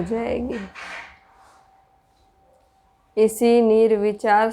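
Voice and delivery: measured, even-toned meditation guidance with long pauses; spacious, steady meditation voice; guided meditation. Real, not acted. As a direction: guide listeners inward in unhurried phrases.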